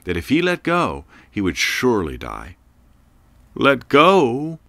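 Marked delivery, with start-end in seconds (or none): 3.5-4.6 shocked disbelief. Acted. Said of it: "he thought".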